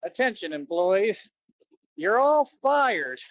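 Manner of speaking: slow mock intercom announcement, rising high and loud on fired; retelling the movie cat's gleeful intercom firing; evil cat on intercom. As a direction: ham up the evil boss cat firing everyone. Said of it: "he's on the intercom, and he's like".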